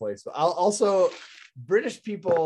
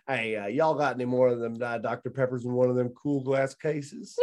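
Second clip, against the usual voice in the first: Southern drawl; 3 semitones lower than usual. Retold or imitated. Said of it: "this guy comes up and he goes".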